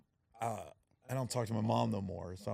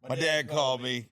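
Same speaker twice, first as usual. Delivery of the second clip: sheepish brother; 3 semitones higher, 8 dB louder, slower than usual. Retold or imitated. Brother explaining cheap gift.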